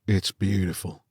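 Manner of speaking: murmur. A narrator's reading. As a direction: breathe it in awe. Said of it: "murmured the fifth man".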